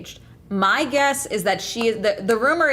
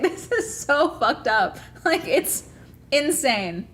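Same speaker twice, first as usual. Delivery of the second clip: higher, slow incredulous laugh-talk; exasperated laughing; 3 semitones higher, slower than usual. Real, not acted. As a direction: laugh in disbelief while saying it.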